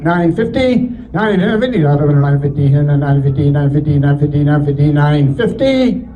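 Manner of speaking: rapid rolling auction chant; auctioneer. Acted. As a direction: rattle off the bids like an auctioneer.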